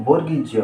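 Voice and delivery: বর্গীয় জ named as Z's sound; letter sound demo. Shown as a demonstration. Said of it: "জেড এর সঠিক উচ্চারণ হলো". (বর্গীয় জ আলাদা করে উচ্চারণ)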